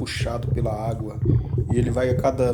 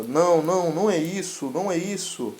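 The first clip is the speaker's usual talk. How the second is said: higher, louder protest; desperate shout; 5 semitones higher, 3 dB louder than usual. Acted. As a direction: plead loudly that it isn't the money. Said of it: "o Prota grita para o treinador".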